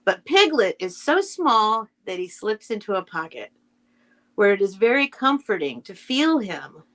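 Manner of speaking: gentle storybook reading, unhurried; story narration. A narrator's reading. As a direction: read it like a bedtime story to children. Reads Winnie the Pooh aloud.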